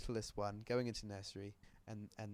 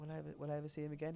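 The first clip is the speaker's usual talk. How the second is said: put-on higher, hurried child's question; sad child; 5 semitones higher, faster than usual. Little pup asking mum once more, high hurried voice. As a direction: rush it out high like an anxious kid. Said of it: "she's like".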